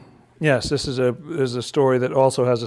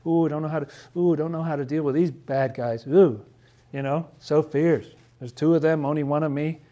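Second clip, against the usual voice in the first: mock struggling Jesus. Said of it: "He's like".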